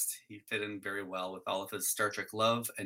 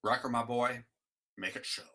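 slurred sh in a captain's order; Sean Connery. Shown as a demonstration. The speaker's hyped captain impression, comic slushy accent. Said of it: "Captain Sean Connery".

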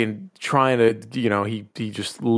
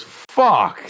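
mock groan; 7 semitones higher, 3 dB louder than usual. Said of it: "He goes".

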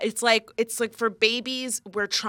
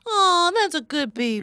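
higher cooed praise for a dog; talking to a dog; 4 semitones higher than usual. Acted. Host repeating game phrase to a dog, higher pet voice. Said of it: "No, it's a dog named Baby".

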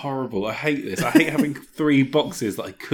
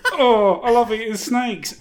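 higher, slower goofy Wario voice; 10 semitones higher, 4 dB louder, slower than usual. Acted. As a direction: lean harder into the cartoon villain. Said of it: "can you give me that again".

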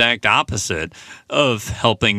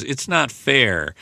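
mild whimper; 5 semitones higher, slower than usual. Retold or imitated. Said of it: "she just whimpers and says".

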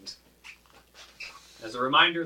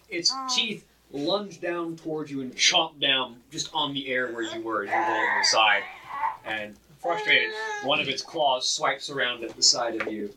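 game master narration; 2 semitones higher, 4 dB louder than usual. Acted. Game master describes attack.

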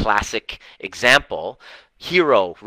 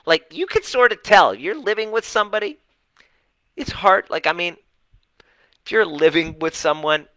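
high incredulous mockery; 8 semitones higher than usual. Coach mocks Tina's disbelief.

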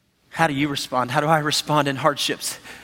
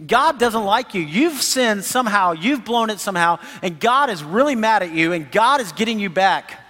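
accusing friends; 3 semitones higher than usual. Retold or imitated. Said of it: "they start saying".

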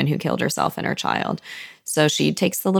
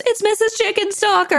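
very high, hammed-up squeal of delight; delighted cheering. Trotty announcing a favorite guest's arrival, delighted cheering. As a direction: cry it out sky-high, half laughing.

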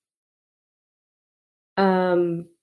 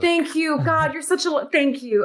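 acted gushing thanks; 7 semitones higher than usual. Acted thanks for offered beer.

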